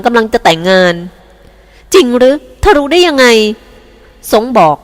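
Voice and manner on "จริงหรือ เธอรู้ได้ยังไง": surprised. Acted. Startled wife questions lover.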